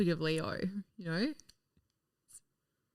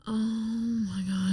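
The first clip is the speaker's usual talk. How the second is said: whispered; much slower than usual. Real, not acted. Embarrassed at mic.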